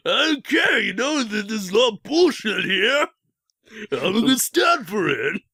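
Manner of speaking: mock angry rant. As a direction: shout it like a fed-up movie star. Stallone ranting about Hollywood.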